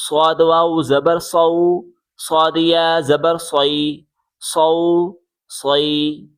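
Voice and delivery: full, rounded whistled s on "صاد", "صو", "صی"; whistling s. Shown as a demonstration. Teacher modelling the letter for pupils, whistling s. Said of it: "سیٹی کی آواز نکالیں".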